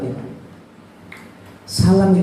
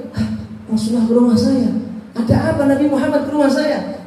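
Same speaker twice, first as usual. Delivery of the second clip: overjoyed master; 6 semitones higher than usual. Acted. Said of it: "senangnya bukan main".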